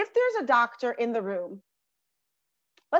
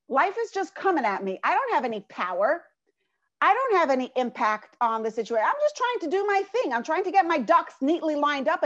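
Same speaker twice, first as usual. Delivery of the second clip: self-pitying victim. Retold or imitated. Teacher voicing a helpless victim, mild self-pitying whine. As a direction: sulk as if life keeps knocking you down. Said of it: "Do you hear it?".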